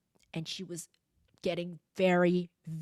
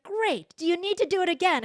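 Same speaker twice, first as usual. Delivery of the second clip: encouraging parent; 10 semitones higher, 6 dB louder than usual. Retold or imitated. Mother encouraging her angry child.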